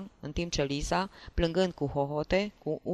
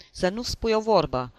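loud, higher-pitched angry command; narrated howl; 5 semitones higher, 5 dB louder than usual. A narrator's reading. Husband forbids his wife a word, howling at her. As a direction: yell it as a threatening husband. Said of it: "urlă soțul".

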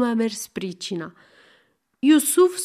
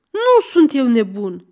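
louder, a mock bellow of denial; yelling; 6 dB louder than usual. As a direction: bellow back the insult. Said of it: "zbiară Aron". (răcnet de protest)

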